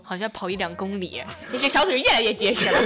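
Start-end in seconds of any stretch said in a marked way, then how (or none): 1.5-2.8 laughing, 越 stressed. Real, not acted. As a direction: laugh through 越来越结实. Repeated punchline, laughing.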